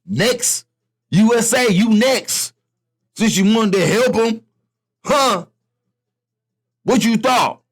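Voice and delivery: a hint of a menacing Russia; voicing Russia. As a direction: gloat as Russia threatening the USA. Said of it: "Russia's like".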